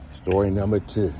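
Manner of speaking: a hint of a radio host intro; echoey announcer voice. Shown as a demonstration. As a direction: announce it like a show title.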